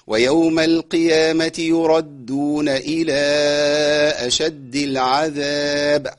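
slow, drawn-out chanted recitation; Quran recitation. Acted. Teacher recites the verse for the class. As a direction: stretch the long vowels slowly.

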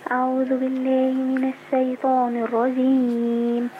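slow measured tajweed recitation; slow formal recitation; Quran recitation. Acted. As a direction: recite slowly, each word drawn out. Caller begins Quran recitation.

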